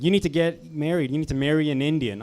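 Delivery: lightly voiced Indian mother insisting; nagging mom. Mother nagging her son about marriage, mock insistent voice.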